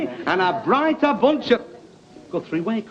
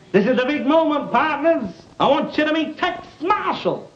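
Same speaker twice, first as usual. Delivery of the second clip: showman introduction; 3 semitones higher than usual. Acted. Host presenting the cowboy star to kids, grand announcement. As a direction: build up to the star's name.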